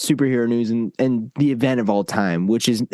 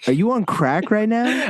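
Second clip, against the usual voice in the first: incredulous; 8 semitones higher than usual. Real, not acted. Disbelief at friend's opinion.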